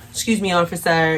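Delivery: lightly put-on proper politeness; Karen voice. Teen trying to speak better to a cop, light Karen voice. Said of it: "that Karen voice".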